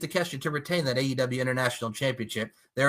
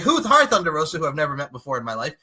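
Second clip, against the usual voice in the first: fake friendly greeting; 2 semitones lower than usual. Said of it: "acting the fact that".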